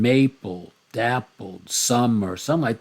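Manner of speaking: first syllable hit in "maple", "dappled", "summer", "sunlight"; strong-weak beat; trochaic stress. Shown as a demonstration. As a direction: lean on the opening syllable. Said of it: "first syllable accented".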